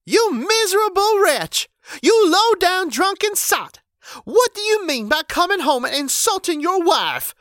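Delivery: very high, loud outraged wife; furious scolding. A narrator's reading. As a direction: shriek the insults at him. Wife berates drunk husband.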